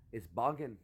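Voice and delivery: British slang in a light accent. Shown as a demonstration. Teaching the word for nasty, British accent. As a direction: put a British accent on "boggin". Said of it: "you say it with an accent".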